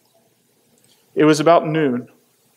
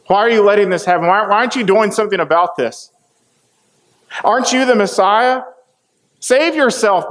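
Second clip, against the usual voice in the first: hurled insult. Acted. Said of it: "hurled insult at him".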